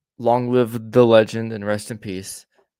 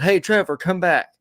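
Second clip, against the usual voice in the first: mock yell, pitched up and louder; retold yell; 6 semitones higher, 4 dB louder than usual. Coworker calls the teller back as he walks away, imitated yell. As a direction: imitate someone calling out, higher and louder. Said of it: "Wade yelled".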